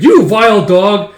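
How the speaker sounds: high, loud, drawn-out taunt; slow high yell at the enemy; battle insult shout. Acted. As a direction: hurl it as a mock war cry. Child attacking in play battle.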